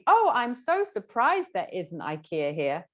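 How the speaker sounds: mock gushing surprise, leaning on "so surprised"; hammed-up "Oh" of surprise; explicitly stated surprise. Shown as a demonstration. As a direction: spell out the surprise in an acted exclamation. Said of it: "there wasn't anything".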